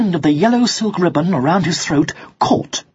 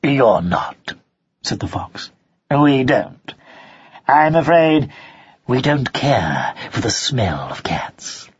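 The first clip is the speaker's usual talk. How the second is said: lower, sly fox, dropping to a whisper; sharp nasal fox; 4 semitones lower than usual. Acted. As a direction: fox politely sniffing at cats. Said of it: "a sharp, rather nasal voice".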